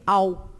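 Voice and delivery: au glided as one syllable, slow; diphthong au. Shown as a demonstration. Teacher showing the au diphthong, slow. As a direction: draw out au as one gliding syllable. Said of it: "forma de tongo com A".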